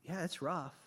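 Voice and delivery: soft, gentle reassurance; lightly voiced, tender God; understanding God. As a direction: quietly ask for trust, as God. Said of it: "God's saying".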